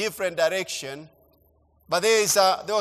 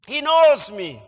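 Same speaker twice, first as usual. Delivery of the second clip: excited retelling; 3 semitones higher than usual. Retold or imitated. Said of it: "telling my mom".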